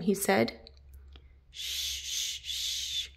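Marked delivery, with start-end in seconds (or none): 1.5-3.1 soft whispered shushing; hushing shh. Acted. Friends hiding the surprise, whispered shushing. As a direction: hush everyone before the surprise.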